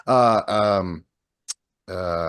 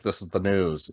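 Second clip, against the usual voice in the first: flat newsreader voice. Retold or imitated. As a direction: imitate a flat, lifeless newscaster. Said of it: "they're just like".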